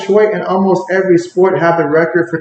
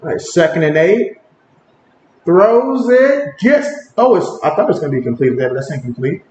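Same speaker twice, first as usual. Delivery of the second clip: casual live play-by-play, lifting on the action; play-by-play call. Acted. Streamer narrating the game for chat, play-by-play. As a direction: call each snap as it happens.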